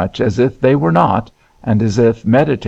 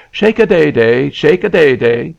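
higher, sing-song nursery coaxing; nurse to baby; 5 semitones higher, 4 dB louder than usual. A narrator's reading. Nurse requiring a baby to perform, sing-song coaxing. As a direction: coo it insistently like a nurse drilling a baby. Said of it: "with which nurses confuse the poor heads of babies".

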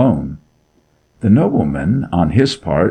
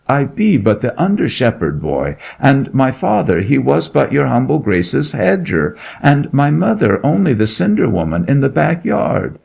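frightened pleading; 6 semitones higher than usual. Acted. Shepherd boy pleads innocence to the Duke, frightened. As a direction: beg the Duke not to suspect you.

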